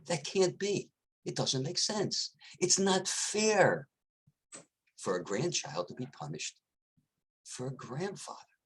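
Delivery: can't believe it's fair; incredulous. Acted.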